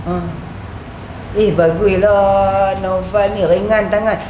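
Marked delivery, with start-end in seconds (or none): 1.4-4.2 slow, drawn-out mock compliment; sarcastic praise. Shown as a demonstration. Teacher demonstrating a jibe disguised as praise, slow sarcastic delivery. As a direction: praise as a dig, stretching the words. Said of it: "Hati nama dia perli".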